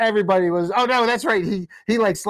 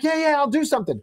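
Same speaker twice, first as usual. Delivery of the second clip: put-on dismissive boyfriend; 9 semitones higher, faster than usual. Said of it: "And he's like".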